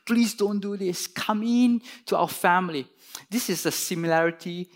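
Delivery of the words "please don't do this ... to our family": mildly begging, higher pitch; earnest, raised-pitch entreaty; pleading. Acted. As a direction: plead like a father coaxing his son indoors. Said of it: "pleaded with him".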